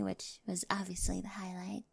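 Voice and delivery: soft whispered tease; playful whispered brag; whispered aside. Acted. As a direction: drop to a secret whisper. Teasing aside after the question.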